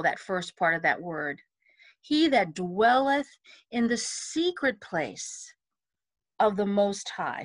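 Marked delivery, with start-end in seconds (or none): 2.0-7.4 measured phrases stressing "dwelleth" and "secret"; emphasis on key syllables. Shown as a demonstration. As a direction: slowly lean on "dwell" and the "se" of "secret". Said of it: "and then under see".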